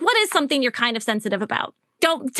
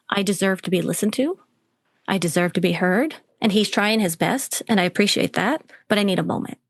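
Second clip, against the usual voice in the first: lower, measured, composed self-talk; self-observing inner voice; 4 semitones lower than usual. Acted. Coach models client's self-talk when triggered, calm and measured. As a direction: talk yourself down, low and steady. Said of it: "where you're like".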